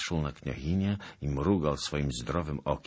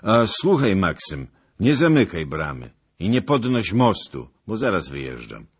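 calling out; 6 semitones higher, 12 dB louder than usual. Acted. Rider calls back to gatekeeper.

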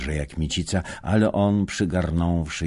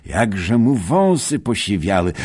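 high, loud astonished cry; amazed exclamation; 7 semitones higher, 8 dB louder than usual. Acted. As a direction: marvel aloud at grey whiskers. Greeting old friend, amazed.

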